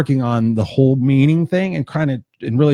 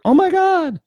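much higher, fast, frantic repeated oh my god; mock panic; 9 semitones higher, faster than usual. Imitating a fearful person panicking about losing everything. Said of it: "What is fear?".

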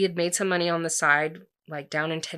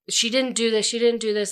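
higher-pitched retold plea; acting out a breathless rush to defend a friend; insistent, mildly raised voice; urgent defence; 5 semitones higher, 4 dB louder than usual. Friend urgently defends accused woman.

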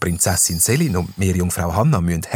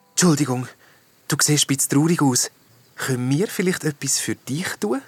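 higher, careful offer of help; gentle concern; 6 semitones higher than usual. A narrator's reading. Princess offering the sad ghost help, gently. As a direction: approach the sad one gently. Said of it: "sagt zum traurigen Geist".

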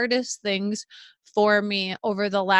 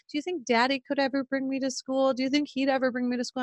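put-on higher, softer little-boy question; lightly voiced child; 4 semitones higher, 4 dB quieter, faster than usual. Son asks mother about daddy on walk to school, softly voiced child. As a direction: lightly imitate a small child asking, quickening on the repeat.

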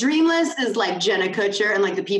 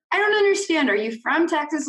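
high, baffled question; puzzled followers; 8 semitones higher than usual. Retold or imitated. Social media followers asking about her y'all, baffled question. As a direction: sound confused, much higher.

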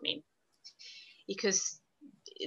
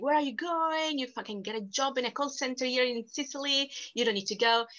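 higher-pitched imitation of protesting relatives; retold family objections; 3 semitones higher than usual. Family objecting to the move from Sicily, retold protest. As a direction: mimic relatives questioning the decision, pitched up at first.

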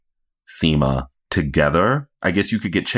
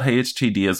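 quoting Che's greeting; 5 semitones higher than usual. Retold or imitated. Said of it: "The fact that I thought".

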